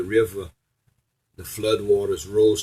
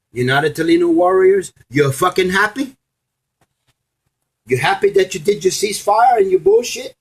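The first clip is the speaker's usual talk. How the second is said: angry taunting; 5 semitones higher, 4 dB louder than usual. Real, not acted. Rant at rivals who ignored him.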